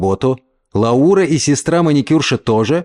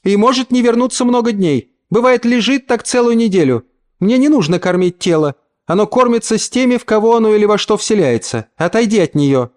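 higher, contemptuous mother; stern mother; 8 semitones higher than usual. A narrator's reading. Mother scolds the uncle over the sleeping girl. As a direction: scorn him, keep him from the body.

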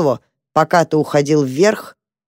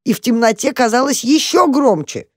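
usual speaking voice

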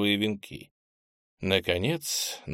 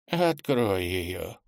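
trembling voice; 2 semitones lower, much slower than usual. Acted. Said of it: "дрожащим голосом попросил он".

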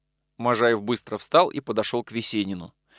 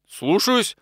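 a startled servant's higher yes-sir; dumbfounded reply; 8 semitones higher than usual. A narrator's reading. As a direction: caught off guard, mild. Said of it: "оторопело ответил лакей". (растерянно, оторопело)

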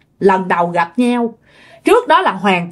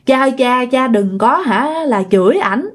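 lightly acted plea, often lifted in pitch; retold pleading; 3 semitones higher than usual. Possessed daughter begging father to stop scolding, retold pleading. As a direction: implore Dad, acting it with restraint. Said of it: "quỳ xuống mà nó nói với lại cha".

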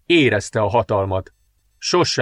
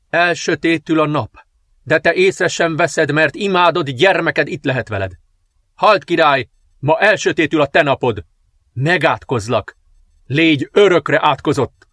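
dark princess cursing; 4 semitones higher than usual. Acted. Dark princess curses the king on his throne, menacing. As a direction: lay the curse on the king, building. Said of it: "Kiáltott".

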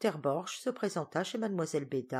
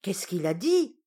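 loud query from the hard of hearing; lightly voiced deaf old lady; deaf old aunt; 3 semitones higher, 7 dB louder than usual. A narrator's reading. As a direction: ask it loudly, not having heard. Deaf aunt asks her niece.

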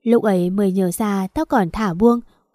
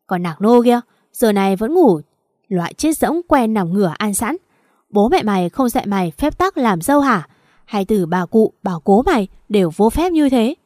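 a shrill-tempered tirade, moderately raised; furious scolding. Acted. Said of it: "mụ điên tiết chu chéo".

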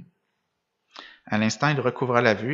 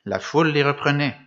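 usual speaking voice

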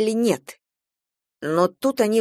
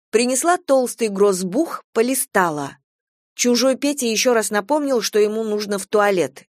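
usual speaking voice

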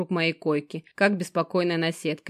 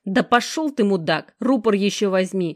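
furious snap; 2 semitones higher, 5 dB louder than usual. Acted. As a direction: lash out in a rage. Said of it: "вызверился Жека".

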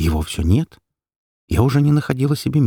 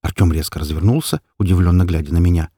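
plain reading voice

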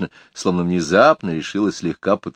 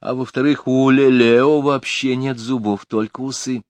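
lady's indignant defence; 6 semitones higher, slower than usual. A narrator's reading. Lady defends her pet.

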